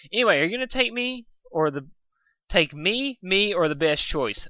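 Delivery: a cocky pegasus voicing her own pitch; pushy Rainbow Dash. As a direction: sell yourself as the obvious pick. Dash pushes herself as choice.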